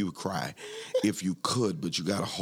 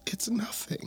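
high put-on innocent voice; mock-innocent high denial; imitating drunk lady; 4 dB quieter, slower than usual. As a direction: brush it off in a small, high voice. Retells lady denying the alcohol.

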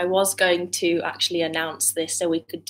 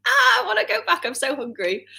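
high whiny plea, much higher; whiny hungry voice; 11 semitones higher, 4 dB louder than usual. Retold or imitated. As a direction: whine it like a hungry kid.

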